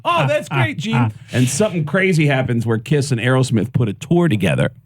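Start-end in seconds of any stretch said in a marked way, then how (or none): 0.0-1.1 mock buddy reply.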